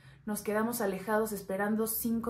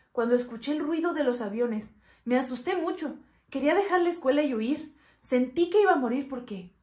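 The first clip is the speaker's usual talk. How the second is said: raised, louder, alarmed telling; frightened retelling; 4 semitones higher, 6 dB louder than usual. Acted. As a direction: relive the scare, pitch and volume climbing. Recalls terror at the planes.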